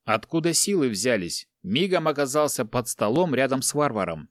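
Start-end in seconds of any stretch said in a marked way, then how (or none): none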